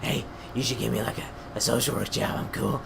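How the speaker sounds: mock sore-throat rasp, lightly done; a hint of a lost voice; imitating a sick voice. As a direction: imitate your own worn-out interview voice. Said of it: "I kinda sounded like this".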